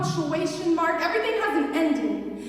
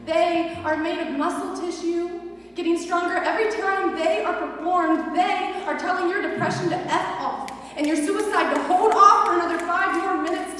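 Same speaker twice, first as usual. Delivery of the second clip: building intensity; 3 semitones higher than usual. Acted. Poem builds to a climax.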